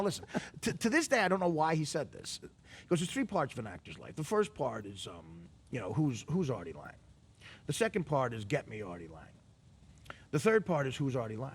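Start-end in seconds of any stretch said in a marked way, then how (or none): 3.0-11.5 imitating Lorne. Artie imitating Lorne's low delivery.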